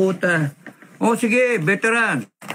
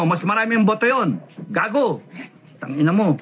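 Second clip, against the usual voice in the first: seething rant; 4 semitones higher than usual. Real, not acted. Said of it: "gigil ako eh".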